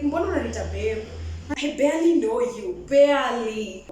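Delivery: incredulous rebuff. Retold or imitated. Woman rejecting a man calling her babe, loud and incredulous. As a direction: push back, hit barely hard. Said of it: "I'm like".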